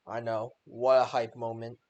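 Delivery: flat, unexcited mock hype; deadpan hype. Real, not acted. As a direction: say hype with zero excitement. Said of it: "in the most non-hype way ever".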